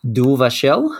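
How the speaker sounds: mock French accent, badly done; poor French accent. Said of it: "that is my best French accent".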